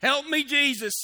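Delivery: preacher recalling a steer chasing him, mock panicked yell. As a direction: yelp it like a steer is on your heels. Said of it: "kinda what I sounded like".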